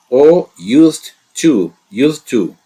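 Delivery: used to drawn out slowly and loud; announced topic. Shown as a demonstration. Teacher announcing the lesson topic, slow and loud. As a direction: present used to like a headline, stretched. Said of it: "hoje eu trouxe pra vocês".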